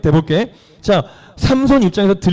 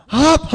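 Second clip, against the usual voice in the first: high, short "hap!" of exertion; effort shout; 9 semitones higher, much slower than usual. Acted. Samson breaking his bonds, sudden effort shout. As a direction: burst out as if snapping bonds.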